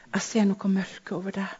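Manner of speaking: hushed warning. Retold or imitated. Warning mother about darkness.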